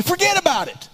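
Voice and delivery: hammed-up Chicago accent, high-pitched; Chicago-style accent. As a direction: toss it out in a mock Chicago accent. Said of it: "that's a horrible accent".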